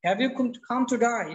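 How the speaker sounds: British "today" sounding like "to die"; British pronunciation. Shown as a demonstration. Teacher demonstrating the misheard question, British pronunciation. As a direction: ask it with British "die" for "day". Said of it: "এটা যে আপনার British".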